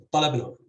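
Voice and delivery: "talabnahum" with stress on its first syllable, TA. Shown as a demonstration. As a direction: hit the opening syllable of "talabnahum". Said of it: "the stress on the first syllable".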